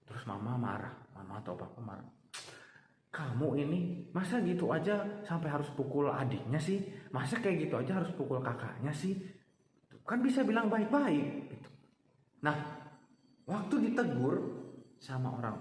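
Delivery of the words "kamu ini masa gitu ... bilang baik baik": a hint of a cross mother; scolding parent. Mama scolding the child for hitting, mildly cross. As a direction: scold the child, rising at the end.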